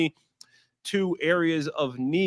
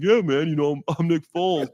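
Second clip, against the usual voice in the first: Nick Foles impression; 3 semitones higher than usual. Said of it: "I'm pretty good at Nick Foles".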